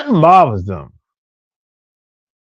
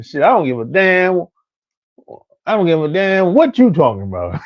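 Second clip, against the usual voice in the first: ordinary talk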